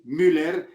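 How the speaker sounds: Müller with a sounded final r; colleagues' pronunciation. Retold or imitated. Narrator imitates his colleagues, Hispanicized pronunciation. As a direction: say Müller as "MÜ-ler", ending in -ler. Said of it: "lo pronunciaban así".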